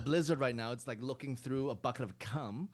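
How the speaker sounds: a soldier without his armor's voice machine orders prisoners back, high and laughing; high-pitched soldier voice. Acted. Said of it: "so high pitched without the machine".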